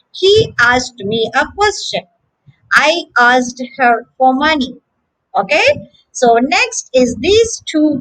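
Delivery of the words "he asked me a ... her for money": "asked" said ASST with the K dropped; silent K examples. Shown as a demonstration. Teacher giving sentence examples of the word. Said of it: "make the K silent".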